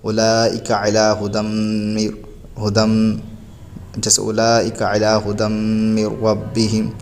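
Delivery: slow recited Arabic verse, each word drawn out; slow Quran recitation. Shown as a demonstration. Teacher reciting the verse to show repeating back. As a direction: recite the verse slowly as in tilawat. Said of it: "اس کو اعادہ بولتے ہیں".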